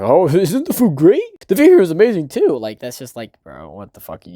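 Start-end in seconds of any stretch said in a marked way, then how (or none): 0.0-2.6 higher, gushing delivery with a laugh; mock dreamy Kazuya. Mocking Kazuya gushing about the view to Minnie. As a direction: ham up a nervous date compliment. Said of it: "And he's like".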